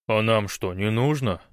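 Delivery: ordinary talk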